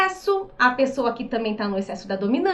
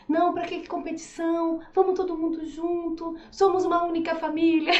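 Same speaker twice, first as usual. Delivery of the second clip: a soft, quieter, easygoing peacemaker; estável tranquilo; 2 semitones higher, 5 dB quieter than usual. Retold or imitated. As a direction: gently wave off the competition, calm and friendly. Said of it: "o estável já é calmo, mais tranquilinho". (imitando o estável, suave e mais baixo)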